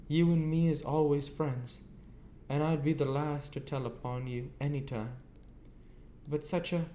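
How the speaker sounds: confidential. A narrator's reading. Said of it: "in a confidential voice".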